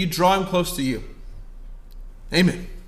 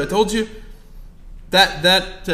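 ordinary delivery

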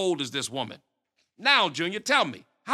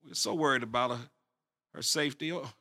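worried mother; 4 semitones lower, 4 dB quieter than usual. Acted. Worried parent on phone.

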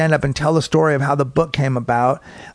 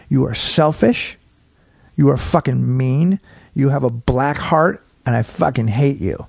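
slow, deliberate condemnation; retold angry verdict, slow and controlled; measured telling-off. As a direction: spell out the contempt phrase by phrase. Acted telling-off of a heckler.

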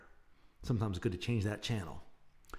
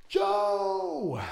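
raised call for a dog; 8 semitones higher, 6 dB louder than usual. Retold or imitated. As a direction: shout the name out the door. Neighbor calls escaped dog.

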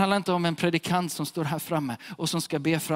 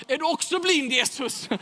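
playful question; 10 semitones higher than usual. Acted. Beggar's cheeky retort, acted.

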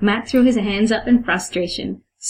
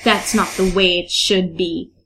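stern vampire elder; slower than usual. Acted. Johnny forbidding a mortal girlfriend, stern accented voice. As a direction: lecture sternly in character.

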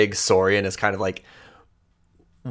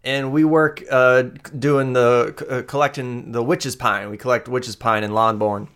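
put-on higher, flustered young woman brushing off help; nervous Amoya; 4 semitones higher than usual. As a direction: stammer out that she's fine, pitched up. Amoya explains herself.

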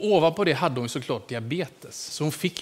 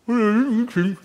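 put-on high, louder innocent old lady; Agnes denying; 7 semitones higher, 6 dB louder, slower than usual. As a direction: play the sweet old lady caught red-handed. Agnes svarar med munnen full. (oskyldig gammal dam, högre och starkare)

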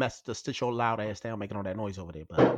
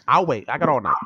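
impatient sarcasm; 6 dB louder than usual. Real, not acted. Impatient jab at cohost.

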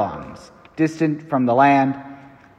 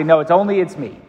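dismissive professor. Retold or imitated. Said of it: "the professor just wanted to say".

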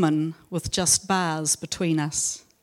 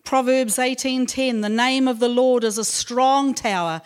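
raised, measured Bible reading voice; scripture reading; 3 semitones higher than usual. Acted. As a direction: read each verse out like a proclamation. Reads scripture verses aloud.

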